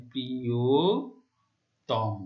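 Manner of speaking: প্রিয়তম drawn out very slowly, final অ said like ও; teacher sounds out প্রিয়তম very slowly, ending in o; slow pronunciation demo. Shown as a demonstration. Teacher models প্রিয়তম for students, slow careful pronunciation. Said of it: "তেমনি করে প্রিয়তম".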